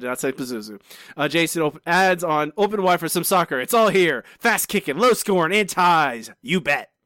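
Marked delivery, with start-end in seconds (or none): 1.3-6.8 TV sports-commercial announcer voice with ad patter. Reading out someone's added joke, in an announcer voice. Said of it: "doing this announcer voice".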